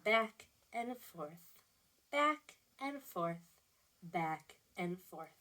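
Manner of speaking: soft, slow rocking rhythm; lulling read-aloud. A narrator's reading. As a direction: ease each back and forth down gently. Rocking refrain in story.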